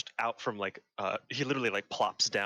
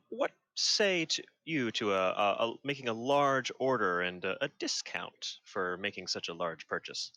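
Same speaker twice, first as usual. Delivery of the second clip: lightly voiced disguise, a touch higher; disguised voice; 3 semitones higher than usual. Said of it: "in his disguised voice".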